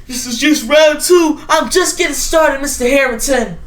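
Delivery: shouted comeback promise; defiant shout. Acted. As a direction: vow it to the world. Defiant vow after rejection.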